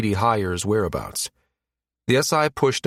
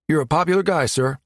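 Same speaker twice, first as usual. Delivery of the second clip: higher, teasing pilot voice; pilot's drawl; 6 semitones higher than usual. A narrator's reading. Pilot messaging Gabe about his popularity, drawling. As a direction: drawl it to a superior officer. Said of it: "the pilot's mental voice drawled".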